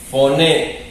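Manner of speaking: "Foné" sounded out with final stress; pronunciation model. Shown as a demonstration. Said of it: "Para que practiquen la pro". ("Foné" como modelo, acento en la É)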